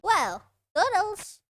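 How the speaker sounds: low, taunting game villain voice; mock-sad villain send-off; voiced game character. Villain taunting the trapped player, mock sad.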